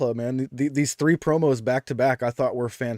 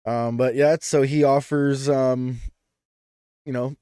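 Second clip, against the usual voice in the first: ordinary talk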